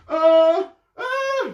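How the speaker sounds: nervous stammer. Acted. Nervous Rolf with gun.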